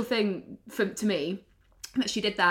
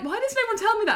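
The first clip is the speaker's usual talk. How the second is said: whiny complaint; 12 semitones higher, much faster than usual. Retold or imitated. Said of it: "you're like".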